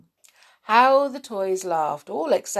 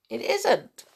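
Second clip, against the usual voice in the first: grinning; 5 semitones higher than usual. Acted. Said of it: "with a grin".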